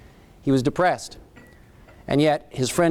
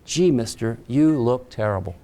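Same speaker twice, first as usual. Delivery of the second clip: put-on gentle, lower-pitched retelling of a child's remark; compassionate; 5 semitones lower than usual. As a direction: say it low, with mild compassion. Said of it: "she did it with compassion".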